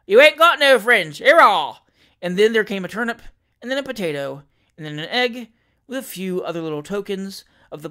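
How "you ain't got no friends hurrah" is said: loud, higher mocking cheer; jeering shout. Village mob taunting Pickwick, shouting. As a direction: jeer at him.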